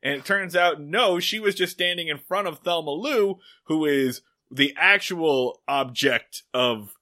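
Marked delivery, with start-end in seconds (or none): 5.7-6.4 "object" slowed and weighted; deliberate emphasis on "object"; stress on OBJECT. Real, not acted. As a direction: lean pointedly on the word "object". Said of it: "Emphasis on the word object".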